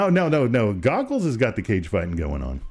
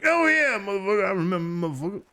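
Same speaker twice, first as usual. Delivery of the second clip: higher-pitched quoted exclamation; imitating the guy; 10 semitones higher than usual. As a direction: put on a high voice for his reply. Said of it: "He was like".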